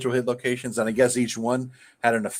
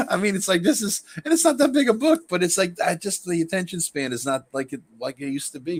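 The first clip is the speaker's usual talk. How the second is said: exasperated; 6 semitones higher than usual. Real, not acted. Exasperated about attention span.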